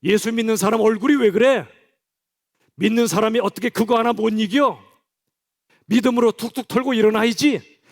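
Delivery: hammed-up scolding of a depressed believer. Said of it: "그게 소리치지 마세요".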